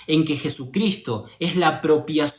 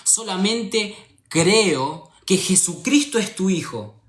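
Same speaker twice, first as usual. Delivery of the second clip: retold earnest prayer; 2 semitones higher than usual. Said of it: "le pedí a Dios y le dije".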